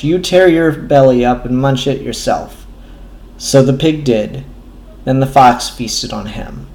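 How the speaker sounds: measured reading of a grim folk tale; deliberate storybook cadence, quieting at the close; fable narration. A narrator's reading. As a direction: tell it evenly, letting the ending sink away. Reads the fable's grim ending.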